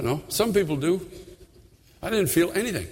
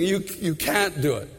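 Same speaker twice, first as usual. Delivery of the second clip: loving voice of the Lord. Retold or imitated. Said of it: "the Lord so lovingly saying".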